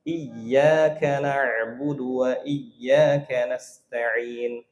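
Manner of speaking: iyyaka with a pressed doubled y, very slow; pressed tasydid. Shown as a demonstration. Teacher shows the correct stressed tasydid.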